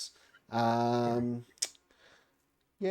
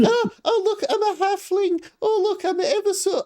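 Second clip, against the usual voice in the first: much higher, squeaky little halfling; 7 dB louder than usual. Shown as a demonstration. GM demos his stock halfling voice to the table, very high. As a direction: pipe it up high like a tiny halfling. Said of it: "all of my D and D characters are, like, one of three voices".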